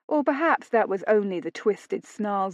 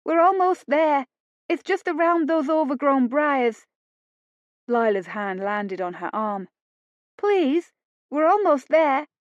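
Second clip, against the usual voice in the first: higher, pleading urgency; urging Lila; 6 semitones higher, 3 dB louder than usual. A narrator's reading. Lila to Phoebe, higher urging. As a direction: coax her onward.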